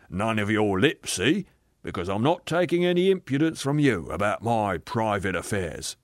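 self-righteous working man, insistent; blustering ghost. Acted. Aggrieved ghost defending the life he led, blustering. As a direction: push each claim like a stubborn grumbler.

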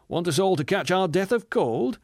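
high-pitched indignant scolding; shouted protest. A narrator's reading. Man pulling the bus window shut, scolding shout. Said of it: "shouted the intelligent man".

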